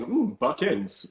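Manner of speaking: high, slow, drawn-out "ooh"; a hint of a scheming writer; intrigued writer. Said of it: "someone probably from the writers was probably watching".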